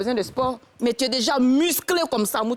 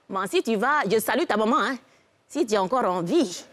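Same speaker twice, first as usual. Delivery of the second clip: put-on old village woman. Old woman warns the couple about sorcery, elderly voice. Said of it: "Il y a une vieille femme bêtée de quatre-vingt-douze ans".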